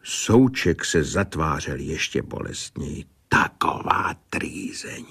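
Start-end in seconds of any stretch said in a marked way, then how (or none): 3.3-5.0 hushed, nearly voiceless lament; understated inward groan of words; pained. Acted. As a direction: let it out under your breath, as if suffering. Pained man's inner complaint.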